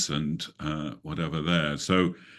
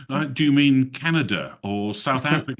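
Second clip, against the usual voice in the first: higher-pitched quote of a puzzled questioner; retold querying voice, lifted in pitch; imitated puzzled guess; 6 semitones higher than usual. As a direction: mimic a clueless guess, pitched up. Retold Americans guessing his origin.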